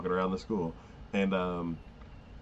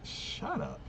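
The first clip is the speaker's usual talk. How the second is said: whispered shut up; 9 dB quieter than usual. Retold or imitated. Mock-scolding the character.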